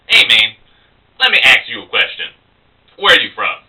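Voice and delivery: casual bar-side local, lightly acted; chatty opener to a guy in a bar. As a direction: play a local sizing up a stranger. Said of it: "the local guy".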